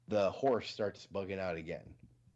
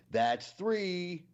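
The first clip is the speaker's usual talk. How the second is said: higher, louder final count; mock stern count; 10 semitones higher, 4 dB louder than usual. Amish man explaining his count to his wife, mock stern. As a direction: land the punchline number hard. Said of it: "he looks at her and he goes".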